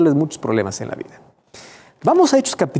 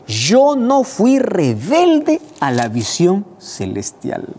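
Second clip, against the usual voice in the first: cita solemne; 7 semitones higher, 4 dB louder, much slower than usual. Retold or imitated. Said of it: "él dice".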